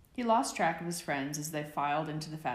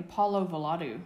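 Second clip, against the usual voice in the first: shouted spell; 2 semitones higher, 6 dB louder than usual. A narrator's reading. Peter charming objects at his friends, shouted spell. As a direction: fling the spell out loud.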